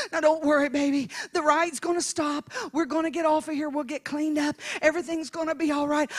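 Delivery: softly spoken running reassurance; calming father. Retold or imitated. Dad reassures his child on the ride, soft calming voice. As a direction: soothe a child, softly and steadily. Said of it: "is calming me down".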